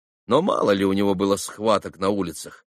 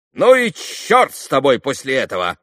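raised, loud cutting-off; curt dismissal; 4 semitones higher, 6 dB louder than usual. A narrator's reading. Boy giving up on a dolt, curtly dismissive. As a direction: cut him off with scorn. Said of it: "отрезал вдруг Коля".

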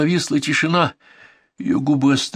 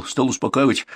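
ordinary delivery, nothing marked

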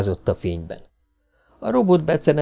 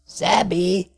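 calling out; 8 semitones higher than usual. Acted. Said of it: "kiáltotta Powell".

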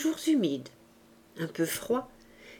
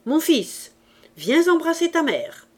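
high, louder motherly outburst; voice of blood; 8 semitones higher, 6 dB louder than usual. A narrator's reading. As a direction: summon your son with sudden maternal passion. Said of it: "d'une voix qui était vraiment celle du sang". (élan maternel théâtral)

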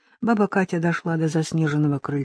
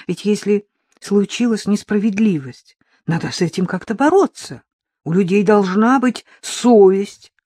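a hint of indignant young woman, louder; young reporter Katya; 4 semitones higher, 6 dB louder than usual. Reporter arguing with the old woman about injustice, indignant. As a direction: appeal to conscience.

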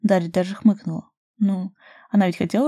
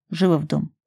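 curt command; 2 semitones lower than usual. A narrator's reading. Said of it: "скомандовал в её затылок".

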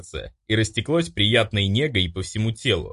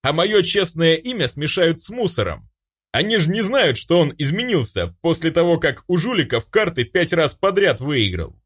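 lightly voiced indignant companion, a bit higher; character complaining; 6 semitones higher than usual. Companion complaining about his ruined good name, lightly indignant. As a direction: grumble about the unfair rumour, a touch raised.

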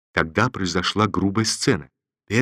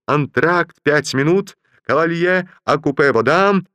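high raised call; conductor shouting; 6 semitones higher, 3 dB louder than usual. Acted. Dance conductor announcing a break to the dancers. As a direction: announce it across the hall. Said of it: "крикнул дирижёр".

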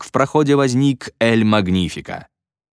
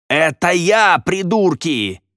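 furious yell; 9 semitones higher, much slower than usual. Acted. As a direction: scream it at the people mocking you. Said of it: "завопил Эль Магнифика". (вопль возмущения)

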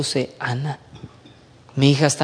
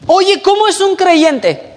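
curious unbeliever; 12 semitones higher, 5 dB louder, slower than usual. Retold or imitated. Voicing an unbeliever asking.

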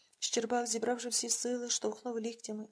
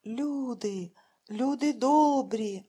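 slow, drawn-out loud call for help; a blind man calling into the empty street; a loud, slow cry for good people; 9 dB louder, much slower than usual. A narrator's reading. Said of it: "почули жінки чоловічий голос".

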